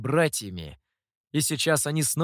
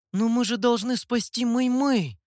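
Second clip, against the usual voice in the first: higher pleading cry of dismay; disappointed plea; 8 semitones higher than usual. Acted. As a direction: protest in bewildered disappointment. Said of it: "непонимание и неподдельное глубокое разочарование". (с глубоким разочарованием)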